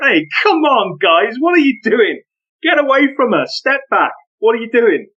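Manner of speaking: imitating telling off rowdy kids; retold stern intervention. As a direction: reenact breaking up the crowd with authority. Stepping in to stop the gang.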